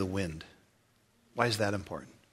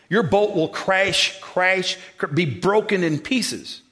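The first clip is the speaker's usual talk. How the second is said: slow grim warning; 6 semitones higher, 5 dB louder, slower than usual. Retold or imitated. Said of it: "and they go".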